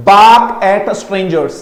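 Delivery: drawn out very slowly; slow model phrase. Shown as a demonstration. Teacher repeating the phrase slowly. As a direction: say it slowly, word by word. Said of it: "focus करता हूं pronunciation".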